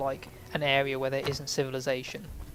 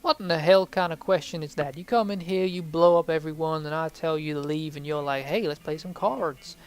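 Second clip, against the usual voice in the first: put-on imagined NPC rant in an American accent; 4 dB louder than usual. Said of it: "That's my American accent".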